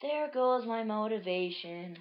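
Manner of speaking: slow, slightly high lament; mild acted dismay; deflated character. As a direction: draw it out as a let-down cartoon character. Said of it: "then she's like".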